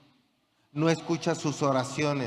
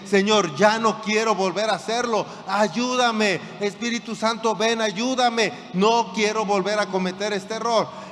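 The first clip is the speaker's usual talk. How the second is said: pleading prayer; 3 semitones higher, 3 dB louder than usual. Acted. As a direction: cry out to God, high and loud. Fallen man begs God again. (súplica desesperada en voz alta y aguda)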